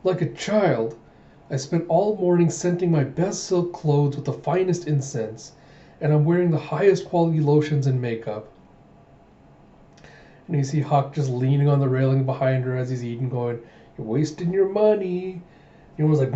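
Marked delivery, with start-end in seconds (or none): 0.0-8.5 acted girlish pout, slightly raised pitch. Princess sulking that her crush treats her like a child, pouting. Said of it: "like, pouting". 14.0-15.4 teasing jibe. Acted. Guard teasing princess about her primping, mocking.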